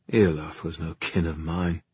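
weary sorrow. Acted. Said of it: "in an exhausted voice".

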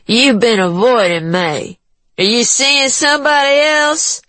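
rising high, accusing whine; jealous woman voice. A narrator's reading. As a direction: accuse him, voice climbing. Juanita jealous.

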